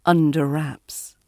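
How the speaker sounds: under wraps with UNDER stressed, wraps lighter. Shown as a demonstration. Teacher repeats the tip, under stressed and wraps lighter. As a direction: lean on under, let wraps fall away. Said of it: "and the wraps is lighter".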